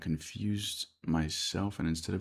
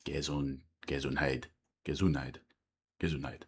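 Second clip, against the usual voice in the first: Gesundheit in a lower, German-accented attempt; 3 semitones lower than usual. Shown as a demonstration. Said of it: "that was definitely more German accented".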